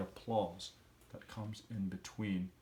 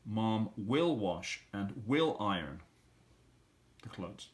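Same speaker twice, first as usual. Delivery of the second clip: slow model sentence; slower than usual. Shown as a demonstration. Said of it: "And tomorrow".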